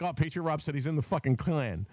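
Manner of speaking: lightly mock someone exposing a scandal; mock accuser. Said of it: "be like".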